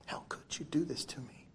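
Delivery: breathy, hushed reproach of a wounded son; hurt whisper. Acted. Preacher voicing the angry elder son, whispered. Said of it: "He was angry".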